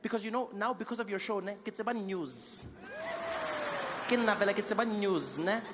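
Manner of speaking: an auntie thanking Trevor, loud and gushing; excited township auntie. Retold or imitated. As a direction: gush about the news loudly. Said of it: "She's like".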